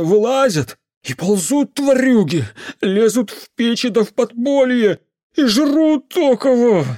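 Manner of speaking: put-on high, loud superstitious drunken rant; the drunk uncle warning the mage about creatures; ranting drunk peasant. A narrator's reading. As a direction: grumble darkly about the volcanoes.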